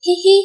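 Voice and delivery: short, high "hi hi" giggle, voiced by the storyteller; teasing little narrated giggle; high-pitched giggle. A narrator's reading. Girl teasing her friend on phone.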